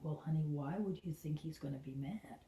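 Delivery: gentle adult self. Retold or imitated. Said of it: "adult Kelly says".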